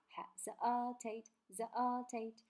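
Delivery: "hesitate" broken up, middle syllable held alone; syllable singled out. Shown as a demonstration. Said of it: "它把它单拎出来了". (单独拎出“hesitate”的中间音节)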